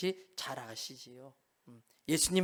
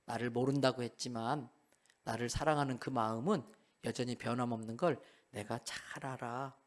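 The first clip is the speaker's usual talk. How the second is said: softer, lower, tender reassurance; gentle Jesus; 5 semitones lower, 5 dB quieter than usual. Acted. Jesus comforting ashamed Peter, soft and tender. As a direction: comfort him like a forgiving friend. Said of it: "씩 웃으세요".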